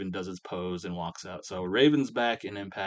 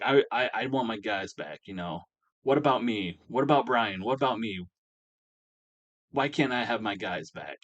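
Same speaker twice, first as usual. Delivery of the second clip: a lightly raised, complaining retold rant; mild mock rant; 2 semitones higher, 3 dB louder than usual. Brian ranting in the ring, a mild mock rant. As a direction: rant about wanting his guys back, half-hearted. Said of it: "ranting and raving".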